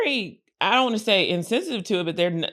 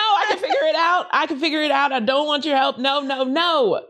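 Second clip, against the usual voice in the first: higher-pitched, stubborn brush-off; insistent refusal; 5 semitones higher than usual. Acted. Friend refusing money help when broke, insistent refusal. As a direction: wave off help, dragging out the last no's.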